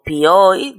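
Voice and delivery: "pioi" drawn out slowly as one syllable; teacher isolating "pioi" in one long glide; sounded-out triphthong. Shown as a demonstration. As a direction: stretch "pioi" loud and slow, vowels run together. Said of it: "se pronuncia en una sola sílaba".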